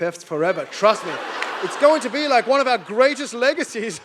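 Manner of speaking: lightly voiced, measured official; a hint of British condescension, deliberately phrased; mock British colonizer. British fobbing off the Palestinians, lightly smug. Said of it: "And the British were like".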